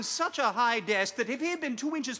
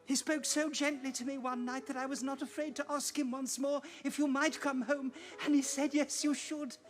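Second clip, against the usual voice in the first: a small sister coaxing her brother home; soft, hopeful child's voice; little Fan; 3 semitones higher, 5 dB quieter than usual. Acted.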